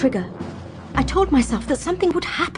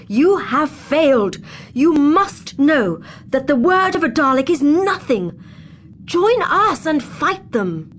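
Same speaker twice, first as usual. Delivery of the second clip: slow, firm and deliberate; insisting; 4 semitones higher, 3 dB louder, slower than usual. Acted. Doctor urging Atrikar to turn on the Daleks, firmly. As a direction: press each word home. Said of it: "the doctor insisted".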